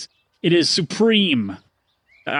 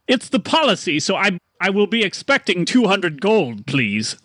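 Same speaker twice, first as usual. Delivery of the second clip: lightly raised, prim salesman; prim merchant; 5 semitones higher than usual. Acted. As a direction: insist politely on the fee. Merchant demands payment.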